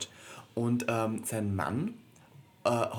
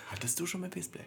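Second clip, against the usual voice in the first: incredulous; 8 semitones higher, 6 dB quieter than usual. Real, not acted. Echoes the question incredulously.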